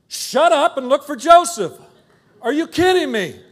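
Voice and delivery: put-on dad snapping at nagging kids during a search; exasperated shout. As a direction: blow up at the kids, half laughing. Frazzled dad snapping back.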